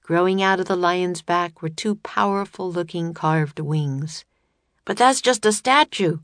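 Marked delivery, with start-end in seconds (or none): 4.8-6.2 cried. A narrator's reading. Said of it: "cried Jack".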